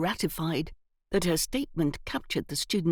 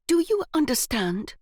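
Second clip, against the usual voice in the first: severe; 8 semitones higher, 4 dB louder than usual. A narrator's reading. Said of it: "her most severe glare".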